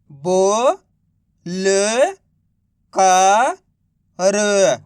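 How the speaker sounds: बो, ल, का, र each held long and set apart; direct matra reading. Shown as a demonstration. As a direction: sound out बो, ल, का, र with clear gaps. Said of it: "direct मात्रा का". (बो, ल, का, र को अलग-अलग खींचकर बोलना)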